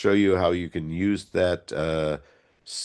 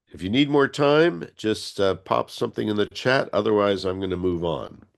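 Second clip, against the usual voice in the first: stuffed up nose. Real, not acted. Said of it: "I sound a little bit stuffed up".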